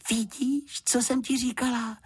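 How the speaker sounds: put-on very high, gleeful girl's voice; delighted. A narrator's reading. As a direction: crow with joy at being proved right. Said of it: "zaradovala se Juditka".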